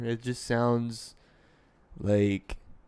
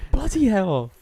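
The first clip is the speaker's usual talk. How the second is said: higher, louder mock British "bloody hell"; mock British accent; 9 semitones higher, 6 dB louder than usual. Echoing the friend's British client, hammed-up British accent. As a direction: toss off "bloody hell" like a Brit, laughing.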